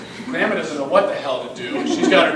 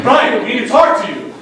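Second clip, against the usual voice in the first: loud, raised-pitch shout to someone far off; calling out; 8 semitones higher, 12 dB louder than usual. Retold or imitated. Principal hailing a dad from the street, calling out. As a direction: holler it up to him.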